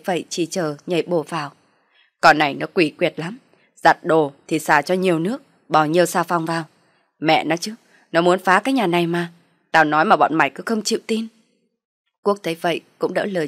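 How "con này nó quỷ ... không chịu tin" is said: loud, bitter father-in-law; angry accusing. Acted. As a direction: rail against the daughter-in-law.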